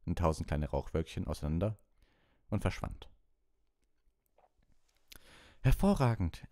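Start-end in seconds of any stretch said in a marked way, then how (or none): 5.6-6.5 high, loud exclamation of praise; called-out praise. A narrator's reading. Lupin praises the class's victory, calling out. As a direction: cheer the pupil's success out loud. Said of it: "rief Professor Lupin".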